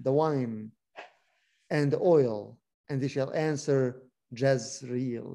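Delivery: measured, earnest Bible reading; scripture reading. Acted. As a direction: read the verse like a preacher to a class. Reads Hosea aloud.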